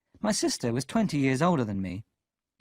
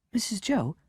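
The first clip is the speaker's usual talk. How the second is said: polite; 9 semitones higher than usual. A narrator's reading. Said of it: "I said politely".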